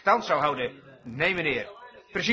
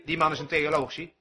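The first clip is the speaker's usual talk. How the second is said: lichtjes nagedaan bisschop; 5 semitones lower, 4 dB quieter than usual. Retold or imitated. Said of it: "de bisschop vertelde hem".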